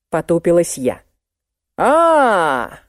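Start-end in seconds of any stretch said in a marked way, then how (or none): 1.8-2.8 mock squeal. A narrator's reading. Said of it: "завизжал вдруг Виноградов".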